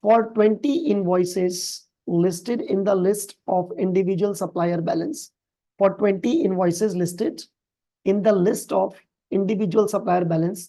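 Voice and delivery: reads the English question out slowly and evenly; slow, careful reading of an exam question. Acted. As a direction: read each phrase of the question slowly. Reads the procedure aloud slowly.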